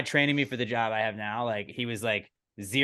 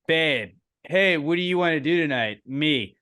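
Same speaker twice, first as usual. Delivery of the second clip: high and loud flirty bit; flirty meme voice; 4 semitones higher, 4 dB louder, slower than usual. Pretend. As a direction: play a cheesy seductive partner. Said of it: "Verbal meme".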